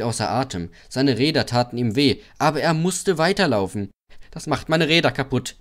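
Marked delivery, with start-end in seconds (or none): 4.3-5.6 higher-pitched, mild lament; sad. A narrator's reading. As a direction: fret unhappily to yourself. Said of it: "dachte er traurig".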